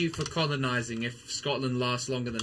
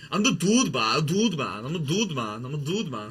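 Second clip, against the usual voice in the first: meme guy quote; 4 dB louder than usual. Retold or imitated. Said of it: "guy who goes like".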